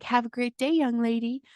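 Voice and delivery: gym lady greeting. Retold or imitated. Host imitating the friendly gym lady's goodbye, bright and high. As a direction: chirp it like a sweet front-desk lady.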